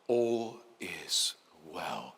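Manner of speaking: very slow, soft, low echo of the phrase; soothing inner voice. Shown as a demonstration. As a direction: murmur it as if heard inside the head. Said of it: "Hear it inside your mind".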